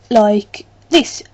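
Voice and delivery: broad Black Country vowels; Black Country accent. Shown as a demonstration. Showing viewers her home speech, Black Country accent. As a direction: lean into the Black Country lilt. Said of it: "but I do talk".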